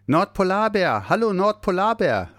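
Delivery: high calling voice into the cave; little Santa calling at the cave entrance, high and eager. Acted. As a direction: call out for his friend. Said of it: "rief er".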